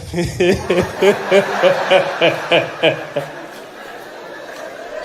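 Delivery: long staccato put-on laugh; imitated chuckle. Imitating the president laughing in Parliament, staccato chuckle. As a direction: chuckle loudly in even pulses, trailing off. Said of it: "He was our laughing president".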